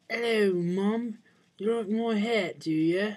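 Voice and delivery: high, loud goofy character voice; silly voice. Acted. Showing off his Christmas hat to mom, in a loud high goofy voice. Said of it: "where I talk like that".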